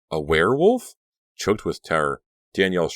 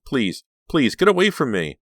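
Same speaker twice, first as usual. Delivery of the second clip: high, loud; terrified plea; 8 semitones higher, 5 dB louder than usual. A narrator's reading. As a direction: beg them to leave. Cornered by wolves.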